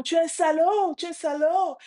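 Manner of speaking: high echoed insult; imitated echo. Unseen voice repeats the boy's insult, imitated echo. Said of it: "Et la voix répond".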